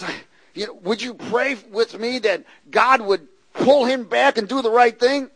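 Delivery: whiny caller. Retold or imitated. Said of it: "I get people call sometimes".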